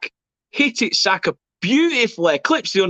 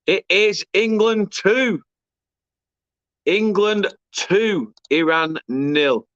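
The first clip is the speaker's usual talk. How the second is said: triumphant; much slower than usual. Real, not acted. Goal confirmed, scoreline savoured.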